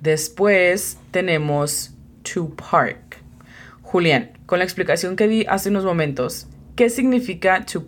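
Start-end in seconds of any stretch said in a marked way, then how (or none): 2.3-3.2 whisper. Real, not acted. Teacher introducing the word.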